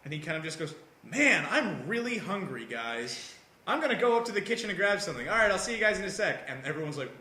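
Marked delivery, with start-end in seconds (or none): 1.0-6.5 mock calmed-down. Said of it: "I just made him calm down".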